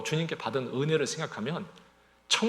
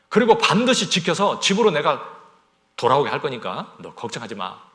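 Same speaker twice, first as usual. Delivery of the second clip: voice of God; 2 semitones higher, 9 dB louder than usual. Acted. God speaking to Jacob.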